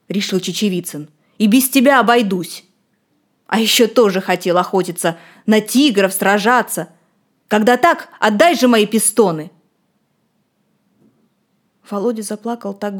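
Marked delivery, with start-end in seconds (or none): 1.4-9.5 louder, indignant reproach; angry, louder. Acted. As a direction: scold him and demand it back. Angry boy gives up on friend.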